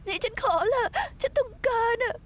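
desperate, tearful begging; crying plea. Acted. Woman pleads with the barman for alcohol, crying. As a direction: beg through sobs, pushing the words out.

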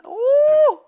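high, loud startled "Ooh!"; startled yelp. Real, not acted. Streamer nearly falling in his game, startled yelp. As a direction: gasp out as you nearly slip.

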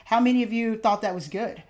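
ordinary talk

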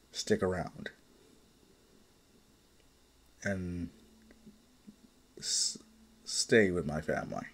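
low, hesitant, heartfelt vow; halting sincerity. Acted. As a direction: falter softly while promising to stay. Husband haltingly vows to stay.

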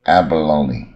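abalone with an open first A and a falling tune; model word. Shown as a demonstration. Teacher repeats abalone for students, open A, falling. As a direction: say abalone and let it fall. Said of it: "也是第一个A".

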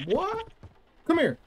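high, loud exasperated call; startled yelling chase. Real, not acted. Chasing escaping baby.

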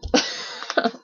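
short breathy voiceless snicker. A narrator's reading. Boy snickering at his own joke, short snicker. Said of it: "The boy snickered like someone".

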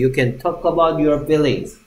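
slow, every word spelled out clearly; slow model reading. Shown as a demonstration. Teacher reading slowly before the class repeats it. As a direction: set the pace slowly for the class. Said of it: "다 같이".

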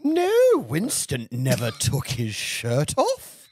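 slow, dreamy camp widow; lightly voiced camp auntie; campy drag queen.

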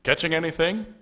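high, loud call from the shore; yelled out. A narrator's reading. Someone yelling out from the shore to fishermen, a loud call. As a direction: call out across the water. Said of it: "somebody yelled out from the shore".

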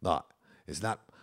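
loud, emphatic grandparent correction; grandparent correcting. Retold or imitated. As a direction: imitate an elder loudly fixing a mispronunciation. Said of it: "grandma or grandpa would say".

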